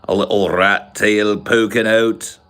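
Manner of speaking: stretched-out mock British accent; put-on British accent. Shown as a demonstration. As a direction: lean into an exaggerated old British accent. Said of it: "speaks like that".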